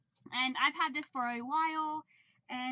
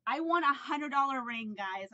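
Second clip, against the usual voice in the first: loud, thrilled announcement; real excitement; 6 dB louder than usual. Real, not acted. Telling viewers about her ring win, excited and louder. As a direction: shout the news to viewers. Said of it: "I'm so excited right now".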